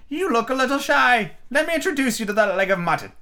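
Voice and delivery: grand mock-formal introduction; Red Queen introducing Alice to the mutton. A narrator's reading. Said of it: "said the Red Queen".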